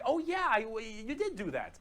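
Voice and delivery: high-pitched dawning realisation; agreeing orc underlings. Acted. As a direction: give in as a gullible orc. Acts out other orcs agreeing.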